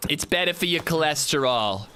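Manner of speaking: lightly voiced prim scolding; a hint of a prim, preachy partner; mock nagging wife. Partner refusing salted butter, in a lightly voiced prim tone. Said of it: "That's not how Lady Zed talks".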